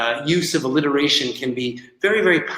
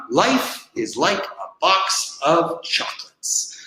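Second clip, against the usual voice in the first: Forrest Gump; 2 semitones higher, slower than usual. Retold or imitated. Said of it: "from Forrest Gump".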